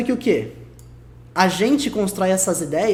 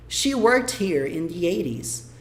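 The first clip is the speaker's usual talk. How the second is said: very slow, deliberate reading; slow English demo; 2 semitones lower, much slower than usual. Shown as a demonstration. Teacher reading the example sentence slowly to students. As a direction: read it slowly so every word lands. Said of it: "mais um exemplo aqui".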